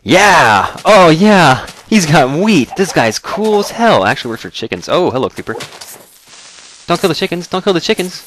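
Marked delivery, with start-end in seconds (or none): 0.0-4.1 high, loud, overjoyed animal squeal; excited sheep voice. Pretend. Player voicing the sheep, high loud excited squeal. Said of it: "And they're like". 6.9-8.2 high, loud panicked shout; panicked yell. Real, not acted. Player yelling at creeper near chickens, high panicked shout.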